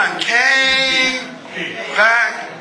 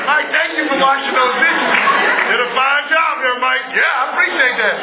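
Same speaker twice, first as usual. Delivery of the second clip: laughing self-praise. Pretend. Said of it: "You look in the mirror".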